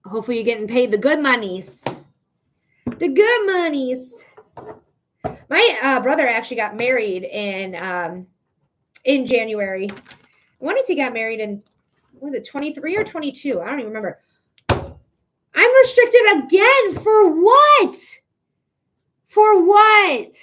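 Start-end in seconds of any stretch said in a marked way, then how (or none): 2.8-4.2 slow, higher, relishing good; playful slow relish on the good monies; savoring the phrase. Real, not acted. 14.7-20.3 loud, higher, slow indignant cry; real outrage at being banned again; shouting in disbelief at the platform; outraged. Real, not acted.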